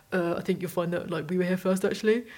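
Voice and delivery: put-on quiet sulky teen mutter; muttered under breath. Teenager muttering at the candy floss queue, quiet and sulky. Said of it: "muttered under his breath".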